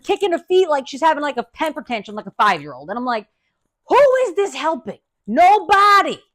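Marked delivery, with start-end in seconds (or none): 3.9-6.2 higher, louder incredulous outburst; exasperated. Retold or imitated. Patient reacts to woman's tantrum, exasperated. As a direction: cry it out in exasperation.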